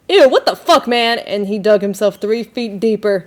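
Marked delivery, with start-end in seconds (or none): 0.1-1.2 disgusted woman. Retold or imitated. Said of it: "and she was like".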